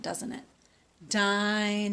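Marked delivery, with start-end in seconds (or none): 1.1-1.9 "Dinosaur" said carefully in three parts, "di-no-saur"; correct pronunciation demo. Shown as a demonstration. Teacher models the right "Dinosaur" for the children. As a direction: model "Dinosaur" clearly syllable by syllable. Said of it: "it has three different sections".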